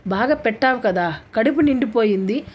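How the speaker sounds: sharp, fed-up sarcasm; irritated sarcasm. Acted. Husband mocks his wife's meal, irritated and sarcastic. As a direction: throw the jibe back at her. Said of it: "అంటూ విసుగ్గా వదిలాడు".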